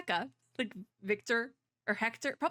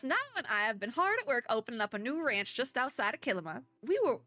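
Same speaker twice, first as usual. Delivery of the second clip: bad Southern accent. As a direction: read it as a folksy Southerner, badly. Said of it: "hard to do with an accent".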